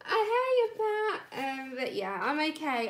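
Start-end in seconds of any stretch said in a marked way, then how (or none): 0.1-1.2 high, loud words that break into tears; crying. Real, not acted. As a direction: thank the viewer while your voice cracks into crying. Streamer in tears over lost pet.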